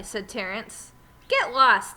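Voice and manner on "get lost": rude brush-off. Acted. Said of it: "said Damien".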